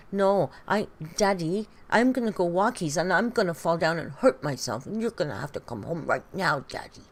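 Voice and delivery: mock whiny little-kid tantrum; Amber. Mimicking Amber begging wifey to come home, mock childish whine. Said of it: "And Amber went".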